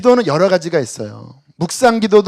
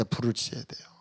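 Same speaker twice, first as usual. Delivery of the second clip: whisper; 8 semitones lower, 17 dB quieter than usual. Real, not acted. Preacher drops to whisper for effect.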